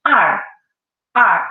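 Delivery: er with the tongue rolled back; demonstrated er. Shown as a demonstration. Teacher demonstrating er to the class, slowly and clearly. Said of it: "look at my mouth".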